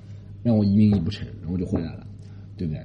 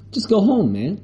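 higher, mock Australian cop; dismissive Australian "go home, man"; lightly put-on Aussie drawl; Australian accent; 9 semitones higher, slower than usual. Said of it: "他澳大利亚口音说".

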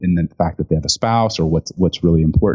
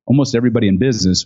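usual speaking voice

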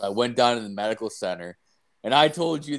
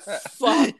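frustrated yell; 13 semitones higher, 4 dB louder than usual. Retold or imitated.

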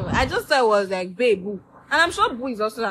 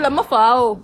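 mom's mispronunciation; 6 dB louder, slower than usual. Retold or imitated. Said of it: "She said".

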